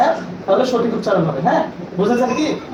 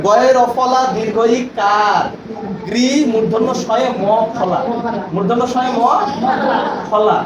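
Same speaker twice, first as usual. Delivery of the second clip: spelling it out. Shown as a demonstration. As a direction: dictate each letter and sign in turn. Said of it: "এটা উচ্চারণ করতে হবে".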